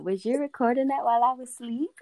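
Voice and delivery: put-on quoting girlfriend. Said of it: "She be in the car listening to it".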